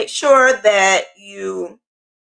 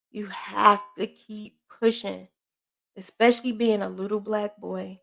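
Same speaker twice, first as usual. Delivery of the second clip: tender pep talk. Retold or imitated. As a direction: coax him gently through it. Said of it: "what I said to him was".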